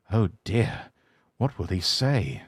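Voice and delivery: soft, worried sigh; quiet and sad. Acted. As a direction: murmur it sadly to himself. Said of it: "he asked himself sadly".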